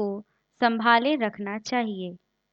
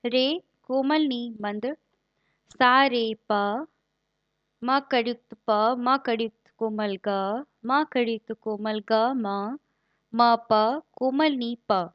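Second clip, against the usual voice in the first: demonstrating phrasing. Shown as a demonstration. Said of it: "इसका उच्चारण तथा लगाव इस प्रकार है, यथा".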